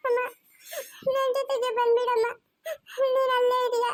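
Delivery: tearful, sobbing reassurance; crying. Real, not acted. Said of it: "ಅವನು ಅಳ್ತಾವ್ನೆ".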